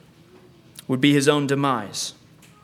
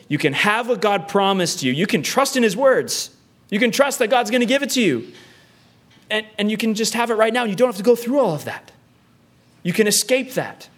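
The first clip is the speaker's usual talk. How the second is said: tempter's voice; 5 semitones higher than usual. Acted. Voicing the tempter's enticing offer.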